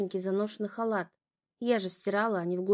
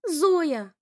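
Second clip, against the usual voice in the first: higher, loud tearful call; crying out; 6 semitones higher, 6 dB louder than usual. A narrator's reading. Sister calls Zoya while crying, tearful. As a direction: call her name through tears. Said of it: "плакала она".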